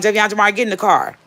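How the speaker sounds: calling out. Retold or imitated. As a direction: call the kids over, firmly.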